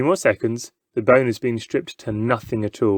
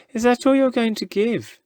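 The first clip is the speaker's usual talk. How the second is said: scornful whisper; 11 semitones higher than usual. Acted. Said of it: "he whispers".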